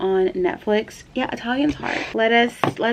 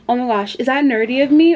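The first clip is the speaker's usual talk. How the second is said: giddy excitement; 5 semitones higher, 4 dB louder than usual. Real, not acted. Excited about the postcard idea.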